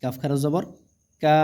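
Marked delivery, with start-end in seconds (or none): 1.2-1.4 কা held long on one note; drawn-out vowel. Shown as a demonstration. Quran teacher showing one-alif length, কা drawn out. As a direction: stretch the vowel of কা. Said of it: "এগুলো টেনে পড়তে হবে একালিফ পরিমাণ".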